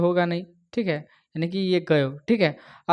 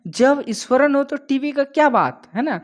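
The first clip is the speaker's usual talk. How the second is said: higher, eager enthusing; excited praise; 5 semitones higher than usual. Real, not acted. Teacher enthusing to students about the storyteller. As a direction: sell how amazing he is.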